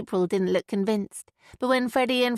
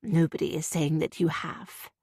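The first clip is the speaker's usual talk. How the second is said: patient; 4 semitones lower than usual. Acted. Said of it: "Graham said patiently".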